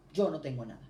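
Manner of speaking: "yo no tengo nada" dicho más fuerte, con golpe en "yo"; declaración firme. Retold or imitated. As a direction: proclama "yo no tengo nada" con fuerza y certeza. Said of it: "Así, simplemente yo dije". (la recién convertida declara su sanidad: "yo no tengo nada", fuerte y firme)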